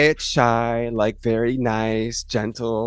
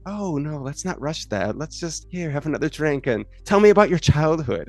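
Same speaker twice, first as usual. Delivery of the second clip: playing coy. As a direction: gently put them off, imitating a coy flirt. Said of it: "playing coy".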